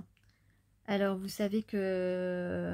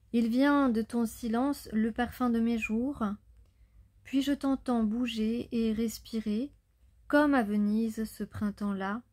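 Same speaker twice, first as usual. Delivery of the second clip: a slightly louder, measured recitation voice; poem recital; 4 dB louder than usual. Acted. Reader recites a love poem to her viewers, measured recital. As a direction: read each line like a love letter.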